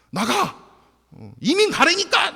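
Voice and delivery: high, loud bullying yell; acted-out loud dismissal; mock angry shout. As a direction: imitate someone shouting people away. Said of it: "목소리가 더 크면".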